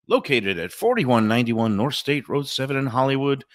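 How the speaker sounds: upbeat radio ad read. Acted. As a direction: sell it like a live radio spot. Host reads live restaurant ads.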